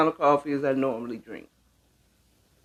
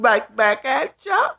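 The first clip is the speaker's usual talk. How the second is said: between kisses; 8 semitones higher than usual. Real, not acted. Right after blowing kisses.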